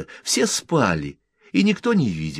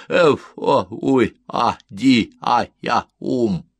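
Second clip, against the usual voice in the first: higher, louder sleep-talk syllables; sleepy mumbling resident; 4 semitones higher, 6 dB louder, slower than usual. A narrator's reading. Sleepy resident disturbed at the open window, displeased mumbling. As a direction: babble half-words as if still asleep. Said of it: "промямлил сонный жилец".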